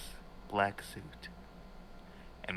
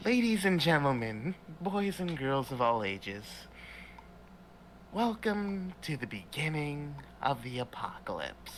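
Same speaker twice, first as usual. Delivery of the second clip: show announcer; 4 semitones higher than usual. Acted. Pam announcing the apocalypse to the group, showman's proclamation. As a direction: grandly present it like a showman.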